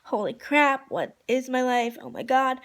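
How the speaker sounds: excited fangirl panic; giddy, emphatic disbelief; retold freak-out. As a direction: relive the freak-out with punched exclamations. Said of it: "I'm freaking out".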